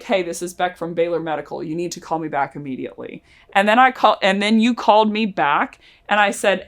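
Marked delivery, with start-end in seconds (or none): 0.0-3.2 quieter and quick, grave urgency; hushed, hurried urgent voicemail; urgent official voicemail. Shown as a demonstration. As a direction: sound like a medical office with bad news. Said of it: "your tone makes it sound like you are".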